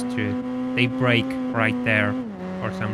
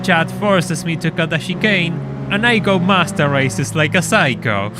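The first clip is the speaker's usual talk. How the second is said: Top Gear presenter voice; 3 semitones higher, 5 dB louder than usual. Acted. Parodying Top Gear intro.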